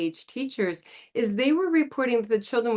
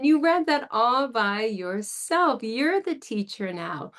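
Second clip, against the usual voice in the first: teacher praise; 4 semitones higher, slower than usual. Shown as a demonstration. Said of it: "praising child".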